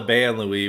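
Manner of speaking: Ban Louis as two English words, "ban Louie"; American pronunciation. Shown as a demonstration. Podcaster settling on the name to use, Ban Louis pronounced the American way. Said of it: "let's use American pronunciations".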